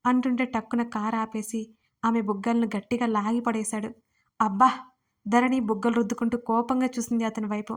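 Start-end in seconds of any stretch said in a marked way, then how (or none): 4.4-4.7 sharp loud yelp of pain; pained ouch. A narrator's reading. Wife yelps at husband pinching her cheeks, loud ouch. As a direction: cry out as your cheeks are pinched.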